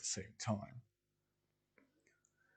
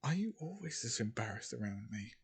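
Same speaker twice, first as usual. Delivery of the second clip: softer, teasing near-whisper; whispering into ear; 5 dB quieter than usual. Acted. Rachel teases Belle close to his ear, softly whispering. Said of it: "then whisper into his ear".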